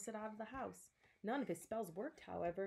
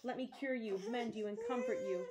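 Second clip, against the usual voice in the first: frantic shouting; 2 semitones higher, 7 dB louder than usual. A narrator's reading. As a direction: shout it like a man at his wits' end. Wizard screaming, begging to help.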